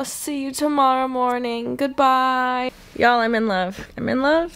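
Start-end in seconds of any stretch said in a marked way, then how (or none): 3.0-4.5 gushing. Real, not acted. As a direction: rave about the sheets. Raving about new sheets.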